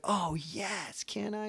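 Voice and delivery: imitating a little girl thrilled to be invited; excited little girl. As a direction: squeak it out like a thrilled kid asked along. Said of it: "she was all excited".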